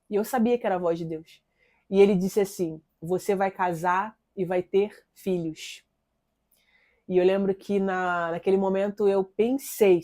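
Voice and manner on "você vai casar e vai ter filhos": slow, measured, lightly voiced voice of God. God promising a young woman marriage, slow and confident. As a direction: retell God's promise slowly, with calm confidence. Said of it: "Uma voz forte, uma voz potente, uma voz com confiança".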